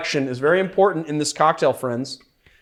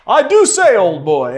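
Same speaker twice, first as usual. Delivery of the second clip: high, loud mock posh British accent; 6 semitones higher, 9 dB louder than usual. Host imitating a British safari explorer, hammed-up British accent. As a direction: ham up an English gentleman with a British accent. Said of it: "he's got a British accent".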